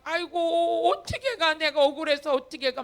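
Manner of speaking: hint of a wailing refusal to leave; imitated wailing protest. Pastor imitating what answered his order to leave, wailing protest. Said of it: "막 이래".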